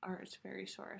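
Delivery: numb jaw, barely moving mouth; after wisdom teeth. Real, not acted. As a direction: talk with a sore stiff jaw. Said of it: "I can't move my jaw that well".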